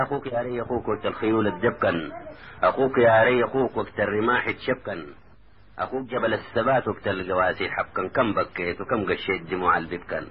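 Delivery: measured dialect poem recital; verse recitation. A narrator's reading. Taha reassures his cousin in verse, recited. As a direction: recite the boast in rhythmic lines.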